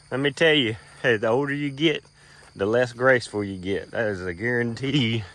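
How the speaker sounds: slightly winded after a stumble; out of breath. Real, not acted. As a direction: talk while catching your breath. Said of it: "probably a little out of breath too".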